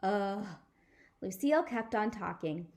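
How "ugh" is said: groan. Acted. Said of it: "The Nana did a groan".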